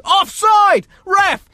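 high, loud touchline yell; shouting offside. Retold or imitated. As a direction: scream the call at the ref. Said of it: "You're probably gonna hear them say".

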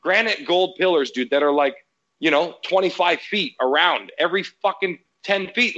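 high-pitched mock outrage, reliving the argument; retold angry rant. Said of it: "I was having that meltdown".

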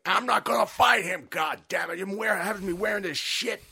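high, whiny complaint as Ventura; whiny wrestler voice. Retold or imitated. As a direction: moan it like a sulky star. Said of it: "he's like".

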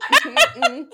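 a high, loud laughing no; laughing refusal. Real, not acted. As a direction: refuse through a burst of laughter.

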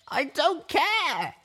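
high, slow, drawn-out angry shout; angry snap. Acted. Little Pip snapping at Velvet through tears, angry shout. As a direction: throw the words back at her. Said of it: "I snapped".

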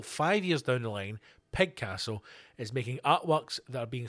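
low, measured reading voice; measured story read from the page; news article read-out. Acted. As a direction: read the article aloud, steadily.

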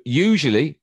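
usually punched loud; stress on usually. Real, not acted. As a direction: hit the word usually hard. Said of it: "there's the key word".

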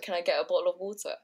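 "water" pronounced with the T, not dropped; T sounded in water. Retold or imitated. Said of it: "I'm so used to, like, dropping it".

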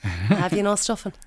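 slow, lightly voiced husband teasing; imitating husband. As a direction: drag it out to needle her. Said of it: "He does it to annoy me".

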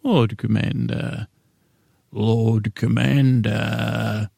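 a slow, light take on Stannis; a hint of stern Stannis, stretched slow; Stannis impression. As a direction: drag out the two words slowly as Stannis. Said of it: "ten minutes of two words of Stannis".

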